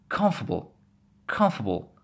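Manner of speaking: "comfortable" as comf-a-bl, no T; T dropped. Shown as a demonstration. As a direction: say "comfortable" leaving the T out entirely. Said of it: "Just get rid of exactly the T".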